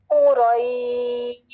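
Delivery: قُرَيْشٍ chanted slowly after a fresh breath; teacher shows the mistake of breaking the verse; wrong broken reading. Shown as a demonstration. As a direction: start قُرَيْشٍ anew as a separate piece. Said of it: "ایسے نہیں".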